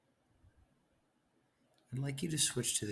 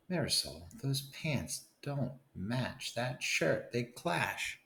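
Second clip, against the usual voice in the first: bossy big brother; 5 semitones higher, slower than usual. Acted. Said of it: "My brother says".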